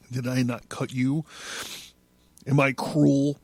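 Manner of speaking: intense, theatrical recital of a prophetic text; solemn, swelling literary performance; dramatic reading. A narrator's reading. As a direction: declaim it like a poet possessed.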